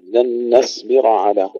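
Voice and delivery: نصبر with light n and full ص; slow recitation of نصبر, only the ص darkened; thin nun, heavy sad. Shown as a demonstration. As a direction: keep ن light, ص thick in نصبر. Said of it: "نرقق النون ونفخم الصاد".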